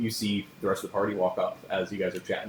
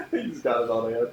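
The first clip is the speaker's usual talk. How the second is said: laughing; 5 semitones higher, 6 dB louder than usual. Real, not acted. Laughing at the player's move.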